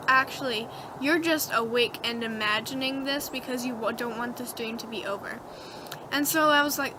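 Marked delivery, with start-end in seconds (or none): 0.1-5.4 lower, softer voice of reason; quiet reality check. Acted. Brain talks dreamer out of the dream, quiet and low.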